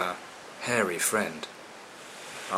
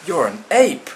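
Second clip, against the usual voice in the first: higher, louder cross shout; cross exclamation; 7 semitones higher, 7 dB louder than usual. Acted. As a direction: snap it at the liar. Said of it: "exclaimed the little dolphin".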